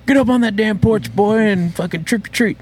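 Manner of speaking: high, forceful acted scolding; mock pushy dad. Dad sending kid trick-or-treating, hammed-up high-pitched order.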